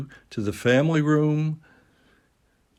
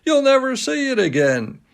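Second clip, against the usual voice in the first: put-on old Baron; 11 semitones higher, 5 dB louder than usual. Old Baron's words quoted by Alan.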